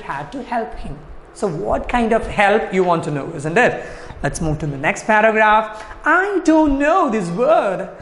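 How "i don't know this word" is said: high, slow elf squeak. A narrator's reading. Teacher reading the elf's homework complaint, high squeak. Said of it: "the elf squeaked".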